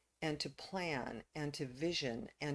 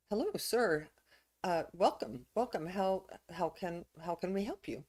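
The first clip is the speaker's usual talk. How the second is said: higher-pitched, welcoming greeting in a told story; 3 semitones higher than usual. Acted. Old man greets the man arriving at the village, welcoming. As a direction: greet a stranger, offering help.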